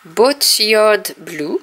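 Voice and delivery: "Boatyard Blue" said slowly with a heavy French accent; a French speaker struggling slowly through "Boatyard Blue"; French-accented English. Real, not acted. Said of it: "mon accent anglais qui est exécrable".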